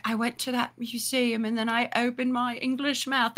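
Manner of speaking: quiet, lightly put-on English voice; lightly mocking English accent; imitated English accent. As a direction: mimic an English friend softly. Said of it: "That's how she sounds in my head".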